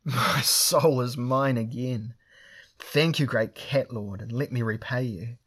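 loud, high, slow cry of relief; crowing with freed joy; wild elation. Acted. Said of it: "Drinaj Bara laughed wildly".

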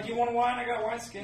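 tipsy high slurry offer; drunk character voice. Acted. Drunk character offering wine again.

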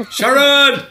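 high, loud mock yell of Sharon; imitating a rock singer's yell. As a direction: screech the name like the singer. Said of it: "every episode of that was just like".

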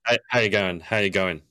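"How you going" low and run together, lips still; frozen face. Shown as a demonstration. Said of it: "like you've had Botox".

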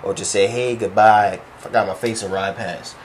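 low, hushed muttered plea to God; retold private prayer, soft and low; silent prayer. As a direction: pray it under your breath. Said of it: "close my eyes".

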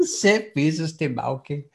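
lightly mimicked Tayside captain; amused Tayside accent impression; Tayside starship captain. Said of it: "bridge were all from Tayside".

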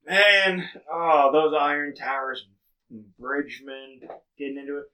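a touch of tipsy, swinging up high; badly faked drunk, egging someone on; faking slightly drunk. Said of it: "I fake being a little bit drunker".

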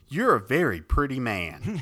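laughing, gushing flattery; sweet flatterer. Acted. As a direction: gush praise at a man who wants to fight you. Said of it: "the other guy's like".

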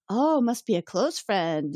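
slow, teasing imitation of her; prying woman. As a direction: draw it out with insinuation.

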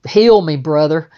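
half-joking cry to a saviour; mock plea. Teller mock-begging the Jesus-like masseur, loud and hammed-up.

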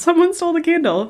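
high emphatic confirmation. Real, not acted. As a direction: pitch it high, stunned.

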